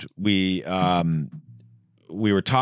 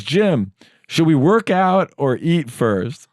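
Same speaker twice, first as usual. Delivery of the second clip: imitating Tom; 8 semitones higher, 6 dB louder, much slower than usual. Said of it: "So he goes".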